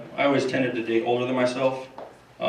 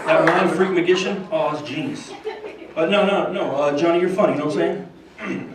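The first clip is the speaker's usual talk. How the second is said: George Bush impression; 3 semitones higher than usual. Bush rambles about clowns to Johnny, lightly laughing. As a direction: chuckle through it like Bush. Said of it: "George Bush and Johnny Carson".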